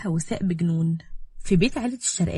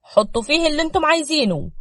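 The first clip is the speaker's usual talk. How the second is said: pleased, loud and higher; happy; 6 semitones higher, 6 dB louder than usual. A narrator's reading. Warehouse owner just paid by his buyer, happy. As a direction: gladly hand it all over. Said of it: "وقال بسعادة".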